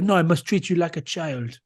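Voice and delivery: imitated French official's reprimand; French accent. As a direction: tell someone off with a French accent. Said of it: "He was French".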